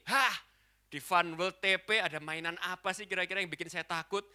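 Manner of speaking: cocky, scoffing challenge; mock arrogance. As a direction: scoff as if nothing could scare you. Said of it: "dengan segala arogansi dan kesombongan saya".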